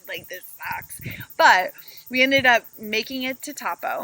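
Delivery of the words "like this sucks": a hushed, breathy grumble; whispered complaint. Retold or imitated. Passenger whispering to her partner, a fed-up hushed complaint. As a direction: whisper it like a secret gripe. Frustrated in the long van ride.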